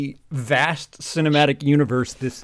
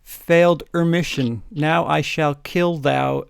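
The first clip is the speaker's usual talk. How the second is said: evil villain voice; slower than usual. Acted. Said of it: "Said evilly in his raspy voice".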